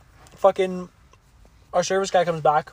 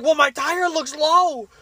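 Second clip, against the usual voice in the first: higher, slow mock voice of the fretting customer; imitating the woman; 7 semitones higher, slower than usual. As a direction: drag it out like a worried customer. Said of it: "And she's like".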